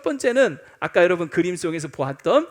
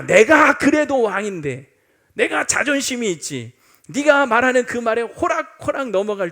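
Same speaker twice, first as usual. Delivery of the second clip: scoffing king; 2 semitones higher, 7 dB louder than usual. Acted. King Agrippa scoffing at Paul.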